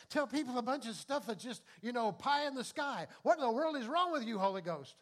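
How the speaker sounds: hammed-up indignant outcry; exasperated protest. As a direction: throw up your hands at the Holy Ghost. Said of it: "Dean's going".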